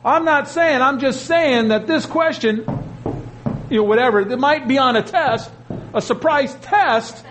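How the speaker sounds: lightly voiced teacher dropping a hint; a hint of a sly teacher. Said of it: "a teacher who used to give away the answers".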